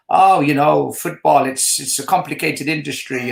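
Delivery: put-on Dutch accent, evasive answer. Manager's brother dodging a question about the sacking, Dutch accent. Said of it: "That Dutch accent".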